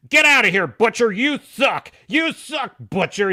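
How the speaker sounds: mock yelling. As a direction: bark them away in a mock tantrum. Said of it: "he's like".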